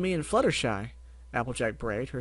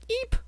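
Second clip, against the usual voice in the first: startled squeak; 4 dB louder than usual. Acted. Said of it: "Fluttershy winced".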